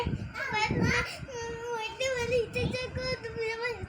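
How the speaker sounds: slow, tearful whimper. Real, not acted. Small girl whimpering about her teacher to mama, crying. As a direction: drag the words out through tears. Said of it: "ये मरियम रो रही है".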